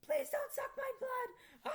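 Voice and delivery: slow, high frightened whisper; pleading whisper. Acted. Girl begs the vampire in a slow scared whisper. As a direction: beg for your life under your breath. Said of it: "I pleaded".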